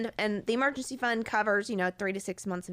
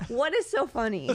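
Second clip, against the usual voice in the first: laughing; 4 semitones higher than usual. Real, not acted. Asks why others keep laughing.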